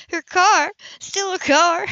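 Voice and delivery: a startled woman's double take; astonished Sybil. A narrator's reading. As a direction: repeat it in amazement.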